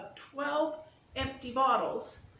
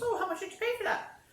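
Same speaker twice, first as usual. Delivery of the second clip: imitating the pastor; 11 semitones higher than usual. Pastor's curious question, retold.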